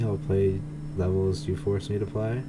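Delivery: usual speaking voice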